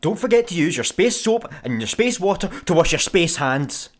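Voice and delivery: loud teasing sing-song, leaning hard on every "space"; mock her by punching each "space". Art teases Pell about her space bathroom, mocking.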